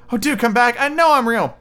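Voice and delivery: high-pitched pleading rabbit; calling. A narrator's reading. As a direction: beg them back in a piping character voice. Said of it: "called the little rabbit".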